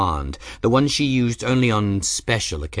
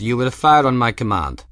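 louder military command; commanding order; 4 semitones higher, 6 dB louder than usual. Acted. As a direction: order the troops to fire. The Auroran orders his men.

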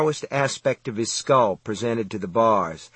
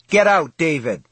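loud, high, desperate father's shout; urgent plea thrown out at high pitch; anguished cry; 5 semitones higher, 6 dB louder than usual. A narrator's reading. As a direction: cry out in anxious alarm. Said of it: "his father cried. His voice was hoarse with tears and anxiety".

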